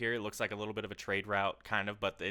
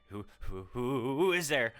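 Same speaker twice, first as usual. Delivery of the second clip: nervous stammer that cracks up high; scared who-who, voice breaking on the second; startled archer challenging a hidden stranger, voice cracking; 3 semitones higher, 3 dB louder than usual. Acted. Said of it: "Can I say that my voice cracked?".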